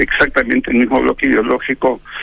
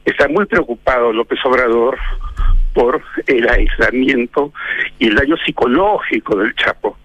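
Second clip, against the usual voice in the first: dry mock concern, lightly ironic. Real, not acted. Pundit mocking the president's worry for el Chapo, lightly ironic. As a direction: feign sympathy with a hint of sarcasm. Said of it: "Lo digo con este tono irónico".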